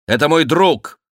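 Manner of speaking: high, loud protest; indignant exclamation. A narrator's reading. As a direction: cry out in a friend's defence. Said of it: "воскликнул Сен-Люк". (горячее восклицание)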